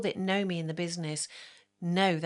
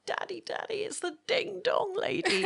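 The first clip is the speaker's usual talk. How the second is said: put-on much higher, a child calling out to her dad; excited little girl; 14 semitones higher than usual. Little girl spotting the makeup artist on the bus, high excited call. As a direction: squeal it like an excited young girl. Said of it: "this little eight-year-old girl and she's crying and she's like".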